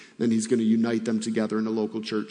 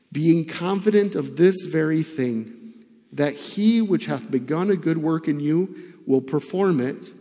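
measured reading aloud, phrase by phrase; scripture reading. Acted. Preacher reading Philippians to the congregation, formal scripture reading. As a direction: read the epistle aloud formally.

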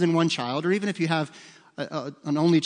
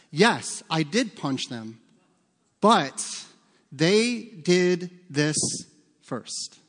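put-on kid excuse; much slower than usual.

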